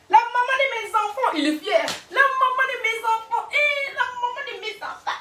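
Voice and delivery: hammed-up high la maman de mes enfants; mocking proud father. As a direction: lampoon a boastful dad. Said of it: "mocking a proud father".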